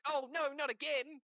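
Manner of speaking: high, wailing "Oh, no, not again!" like a fed-up victim; whiny dismay. Retold or imitated. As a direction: squeal it out in mock despair. Victim caught again by baiters.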